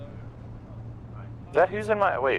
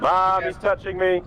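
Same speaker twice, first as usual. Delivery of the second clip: whiny tattling little sibling; 6 semitones higher than usual. Pretend. Squeezed in vehicle, mock sibling complaint.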